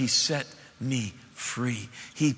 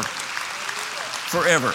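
whispered echo; much slower than usual. Acted. Preacher echoing a word.

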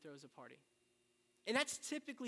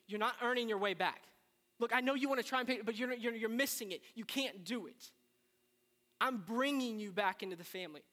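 louder, insistent father reassuring his son; a preacher voicing the father, urgent and loud; father's voice; 4 semitones higher, 7 dB louder than usual. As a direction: press it on him like a father who won't take no.

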